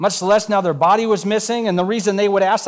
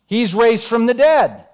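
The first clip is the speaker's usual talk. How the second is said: He's raised from the dead said slowly with weight on dead; slow emphatic; 2 semitones higher, slower than usual. Shown as a demonstration. Preacher stating what Mary never said, slow and emphatic. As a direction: lean on each word of He's raised from the dead. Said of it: "What did she not say?".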